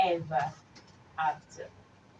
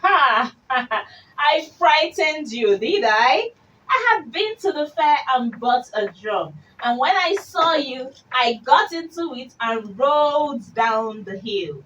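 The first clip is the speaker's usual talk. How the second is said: mocking laugh; 3 semitones higher than usual. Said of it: "the little pig said".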